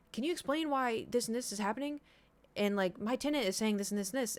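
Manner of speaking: imitating a sternly formal landlord; professional but aggressive. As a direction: demand an explanation, politely but pointedly. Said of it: "he sounded so professional but aggressive".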